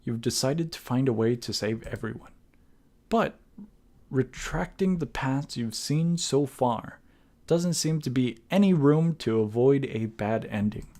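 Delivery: measured dramatic narration, phrase by phrase; deliberate storyteller delivery with pauses; story narration. A narrator's reading. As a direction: read the game's ending like a storyteller. Reads the game's closing narration.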